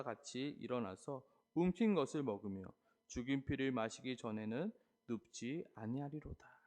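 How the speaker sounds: measured, solemn Bible reading; steady sermon scripture read. Acted. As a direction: read the passage out to the congregation. Reads scripture passage aloud.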